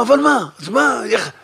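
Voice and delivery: high, loud question; startled objection. Acted. Son objecting to the rabbi, high and loud. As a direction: challenge him in surprise.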